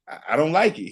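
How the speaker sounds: normal talking voice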